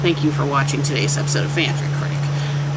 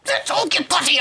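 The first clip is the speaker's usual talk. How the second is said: high mock line through a laugh; 10 semitones higher than usual.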